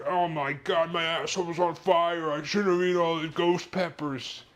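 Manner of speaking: high-pitched, whiny moan of regret; groaning friend in pain. Retold or imitated. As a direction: whine it like he's burning inside. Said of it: "and he's like".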